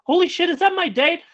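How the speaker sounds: very high-pitched retold disbelief; shocked realization. Man spotting his missing date in the crowd, shocked. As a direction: squeal it in sudden recognition.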